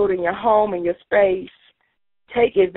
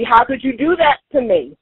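hurt accusation; 5 semitones higher than usual. Shown as a demonstration. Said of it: "It could be".

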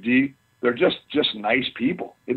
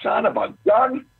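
mock alarm; 9 semitones higher than usual. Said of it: "he goes".

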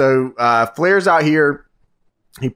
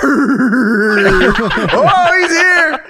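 much higher, louder, laughing shout; excited shout; 10 semitones higher, 3 dB louder, much slower than usual. Real, not acted. Host spotting Arn Anderson at the ring, a real excited shout. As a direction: yell it like a fan seeing his hero arrive. Excited wrestling fan reaction.

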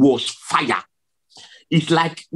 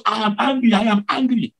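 raised retold declaration of anger; angry divine voice; 5 semitones higher, faster than usual. Preacher recalls the scary word of Jesus, high retold anger. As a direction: repeat it higher, imitating an angry God. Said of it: "angrily saying that".

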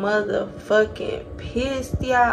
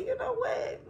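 retold outburst; 9 dB quieter than usual. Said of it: "I said".

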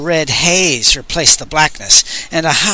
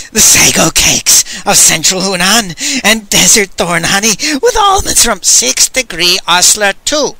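shouting; 6 semitones higher than usual. Acted. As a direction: call it out across the cell. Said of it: "Master Lee shouted".

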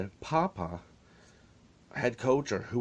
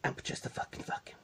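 shaky upset receptionist; 4 semitones higher, 7 dB quieter than usual. Retold or imitated. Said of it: "And she said".

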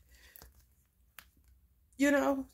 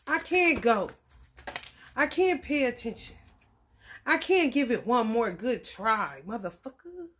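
put-on child's complaint; 6 dB louder than usual. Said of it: "That's what children be wanting to say".

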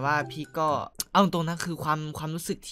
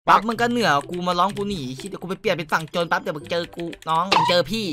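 hoarse ranting; 2 semitones higher than usual. Real, not acted. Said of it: "กูพูดจนเสียงจะแตกแล้วเนี่ย".

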